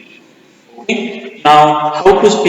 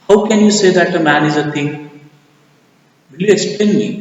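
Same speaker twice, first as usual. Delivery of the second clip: challenging partner; 4 semitones higher, faster than usual. Acted.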